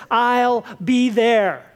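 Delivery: slow, calm and steady; mother reassuring her exhausted daughter, slow and calm. Retold or imitated. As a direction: promise it simply and firmly. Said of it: "And she says".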